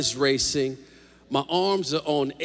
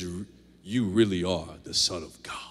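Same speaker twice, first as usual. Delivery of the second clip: lower, hushed whisper; awed whisper; 8 semitones lower than usual. Acted. Disciples in the boat whispering in awe. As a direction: breathe it in awe.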